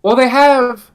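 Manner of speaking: loud, high exclaiming; excited outburst. Real, not acted. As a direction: burst in, worked up. Heated reply in a debate.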